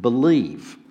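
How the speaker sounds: "believe." set apart and weighted with a falling close; stressing the word. Shown as a demonstration. Preacher to congregation, "believe." given slow weight. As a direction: lean on "believe." as the key word. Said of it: "revolves around the word".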